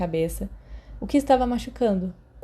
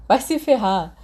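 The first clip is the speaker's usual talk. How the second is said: retrucando; 2 semitones higher, 4 dB louder than usual. Acted. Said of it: "Remus retrucou de volta".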